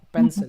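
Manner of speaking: emphatic, falling "Pencil"; falling stress on pencil. Shown as a demonstration. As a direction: let "Pencil" drop in pitch. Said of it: "just as a drop".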